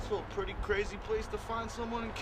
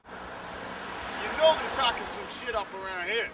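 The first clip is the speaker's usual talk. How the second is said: put-on cheery host addressing children; host it like a kids show; 7 dB louder than usual.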